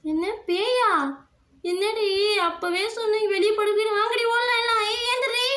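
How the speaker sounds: high, anxious voice; frightened. Acted. Friend reacting in fright to the ghost, high anxious voice.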